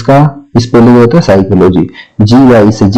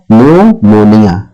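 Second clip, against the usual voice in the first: slow clear demo; 2 semitones lower, slower than usual. Shown as a demonstration. Teacher models निमोनिया to students, slow and clear. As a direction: pronounce निमोनिया slowly, syllable by syllable. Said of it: "इसको पढ़ते हैं हम निमोनिया".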